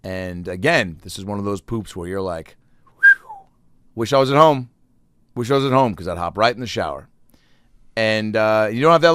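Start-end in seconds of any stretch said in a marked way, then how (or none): 3.0-6.0 mock relief. Relief on toilet.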